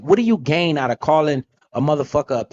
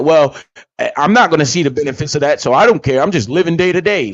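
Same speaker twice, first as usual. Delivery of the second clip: mock careless spender; 4 dB louder than usual. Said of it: "you sound fucking stupid".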